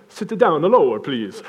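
half-hearted mock Italian accent; rough Italian accent. Italian instructor to his strapped-on student, in a makeshift Italian accent. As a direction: try an Italian accent, not very well. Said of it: "how do you do an Italian accent?".

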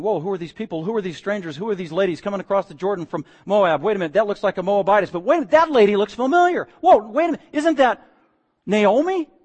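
rising mock amazement; surprised townsfolk. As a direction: gossip that grows into a gasp of recognition.

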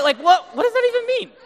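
high, loud exasperated what does that even mean; baffled disbelief. Acted. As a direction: squeal out the disbelief at the slang. Mocking teen slang.

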